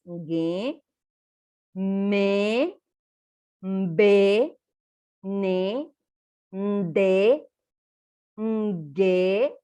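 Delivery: each of GE to ÑE held out, sounded through the nose; nasal consonants. Shown as a demonstration. Teacher sounds out the nasal consonants, each drawn out through the nose. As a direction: recite GE, ME, MBE one by one, long and nasal. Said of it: "tiene que salir por la nariz".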